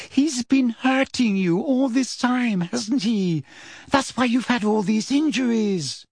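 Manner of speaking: put-on high-pitched accusing girl; shrill, dismayed accusation. A narrator's reading. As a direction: scold him in a high, hushed outrage. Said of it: "said Hermione shrilly".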